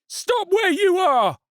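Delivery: slow, loud, high accusing shout; angry stallholder. A narrator's reading. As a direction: spit out each word. Stallholder grabs the woman.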